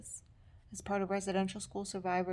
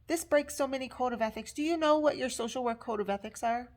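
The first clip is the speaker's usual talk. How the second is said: quicker, higher-pitched mock scolding; mimicked scolding tone; 3 semitones higher, 4 dB louder, faster than usual. Instructor confronts student about ethics, scolding. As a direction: imitate an instructor's sharp telling-off. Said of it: "when she is using that tone".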